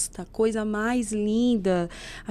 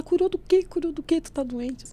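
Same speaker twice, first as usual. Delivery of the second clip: high-pitched, puzzled repeated question; startled questioning; 6 semitones higher than usual. Retold or imitated. Neighbour answering news of a healing, high and surprised. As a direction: imitate a neighbour baffled by the news.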